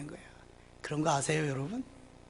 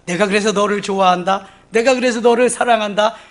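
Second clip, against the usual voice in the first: joyful declaration; 3 semitones higher, 6 dB louder than usual. Acted. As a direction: proclaim God's delight in you. God's loving words, repeated louder. (하나님이 기뻐하며 사랑을 선포하듯 높고 크게)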